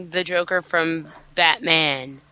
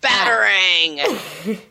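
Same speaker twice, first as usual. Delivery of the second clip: slow, relished Batarang; savoring the word; much slower than usual. Real, not acted. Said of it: "sounds really cool to say".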